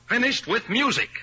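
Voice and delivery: ringing final declaration; emphatic repeat. Acted. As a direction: slam the point down a second time. Repeats it with force.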